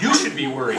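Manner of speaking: "You" stressed firmly, falling after it; pointed retort. Acted. Man turns the worry back on wallet owner, pointed. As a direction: throw the weight onto "You".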